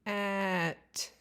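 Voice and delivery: cat stretched out slowly. Shown as a demonstration. Teacher showing a child the sounds in cat, slowly. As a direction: draw the word cat out slowly. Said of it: "listen to me say it slower".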